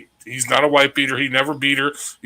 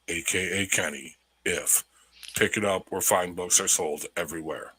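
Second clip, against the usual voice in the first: radio voice; 2 semitones lower than usual. Pretend. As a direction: read it like a radio commercial. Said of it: "let me get my radio voice".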